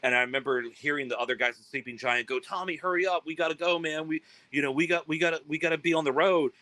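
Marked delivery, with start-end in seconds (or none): 2.4-6.5 impatient urging. Retold or imitated. Bandmates urging Tommy to leave.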